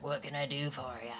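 rough smoker's voice, softly. Retold or imitated. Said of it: "sound like I'm, like, a horrible smoker".

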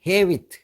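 헤비트 with the final t barely sounded; soft t. Shown as a demonstration. Teacher showing 헤비트 with a weak final t. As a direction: say 헤비트 letting the t fade almost silent. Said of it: "T 발음은 아주 약하게 합니다".

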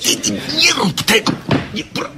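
high, loud alarmed shout; alarmed cry. Acted. A friend crying out in alarm to stop her.

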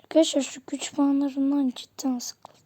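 soft unvoiced whisper. Real, not acted. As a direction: whisper it under your breath. Aside to viewers, whispered.

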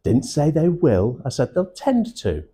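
"they will" against "tend to", both pushed up in pitch; pointed stress. Shown as a demonstration. Trainer correcting a likely misreading, pointed stress on "tend to". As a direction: lean hard on "tend to" as the correction. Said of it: "think about the way I just said that".

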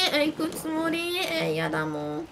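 ordinary talk, nothing marked

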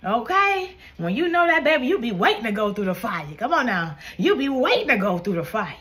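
exhorting the congregation, riding up on key words; fervent preaching. Real, not acted. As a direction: preach it with punchy, rallying energy. Preaching with rising fervor.

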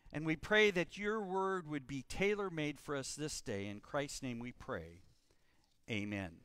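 measured prayer, sinking low at the close. Real, not acted. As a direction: lead a congregation in prayer. Leads congregation in prayer.

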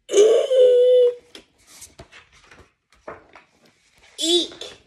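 very high squeal; Hubby frightened, very high squeal; alarmed eek. Acted. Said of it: "bleeped Hubby in alarm".

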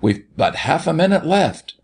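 high-pitched hurried demand; urgent cry. A narrator's reading. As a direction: press the boy for a quick answer. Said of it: "cried the doctor".

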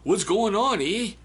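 high, loud exclamation; high excited. Real, not acted. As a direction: burst out high. Laughing outburst.

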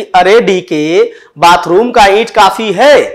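slightly drawn-out, coaxing question; acted gentle asking. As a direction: ask it lovingly, stretching the opening call. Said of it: "फिर पूछा प्रेम से". (प्यार से, ज़रा खींचकर पूछते हुए)

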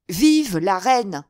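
loud, slow, drawn-out cheer; rallying cry. A narrator's reading. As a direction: call for the crowd to join in. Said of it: "Quelques cris répondirent aux siens".

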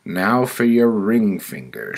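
loud, high-pitched sentencing; committee woman. Acted. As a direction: announce the next penalty as the judging woman. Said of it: "she said".

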